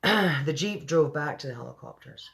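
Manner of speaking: slipping into a Scottish accent. Real, not acted. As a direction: narrate with a Scottish lilt. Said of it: "I instantly go into the Scottish accent".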